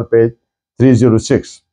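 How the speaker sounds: usual speaking voice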